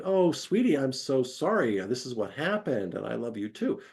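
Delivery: mock tender reassurance. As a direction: comfort a worried partner. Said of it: "respond in a validating way".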